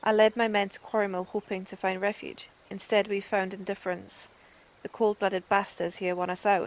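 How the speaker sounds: a hint of a proud, gruff rebel leader; mild acted captain, close to own voice; lightly voiced captain Meffred. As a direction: read it like a weary soldier. Reads Meffred's quest.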